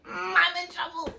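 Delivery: high, squeezed whisper; whispered dread. Retold or imitated. Student summoned by head of class, whispered mock dread.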